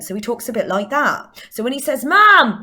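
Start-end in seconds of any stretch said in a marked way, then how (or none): 0.1-1.4 put-on slight West Country accent; Southwest English accent. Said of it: "West accent". 2.1-2.6 put-on loud, high Southwest child's yell of "mam"; Southwest English accent. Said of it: "West accent".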